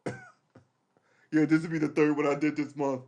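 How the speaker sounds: squeaky high mock voice; very high, hammed-up mock brag; smug show-off. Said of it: "someone that you hate".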